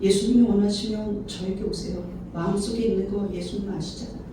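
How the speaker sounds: low, soft, restrained prayer; aloof, dignified. Shown as a demonstration. Proud person praying to Jesus inwardly, aloof and soft. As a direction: keep it quiet and composed, too proud to plead. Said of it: "이렇게 고고하게".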